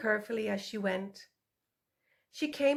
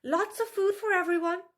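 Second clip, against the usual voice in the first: higher, louder sweet-talking fox; butter up the sow with a higher voice; appeasing vixen; 9 semitones higher, 5 dB louder than usual. A narrator's reading. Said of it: "Tula continued".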